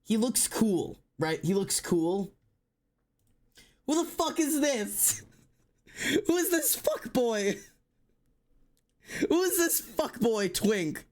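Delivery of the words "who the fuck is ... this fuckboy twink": high, aghast disbelief; scandalised and pitched up; incredulous outrage. Real, not acted. Mock outrage at redesigned character.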